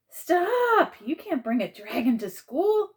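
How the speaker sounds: very high, loud Stop, then a scolding cry; principal's shout. Acted. Principal stops the boy at school, shouting. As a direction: yell it across the lot. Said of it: "exclaimed Mister Frist".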